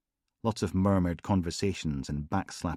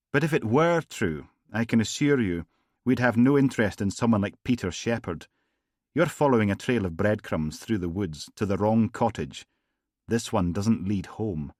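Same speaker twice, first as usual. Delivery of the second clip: silky gangster; 2 semitones higher, 3 dB louder than usual. Acted. Gangster charming Logan after the funeral, silky. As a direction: purr the polite menace. McLennan's veiled warning.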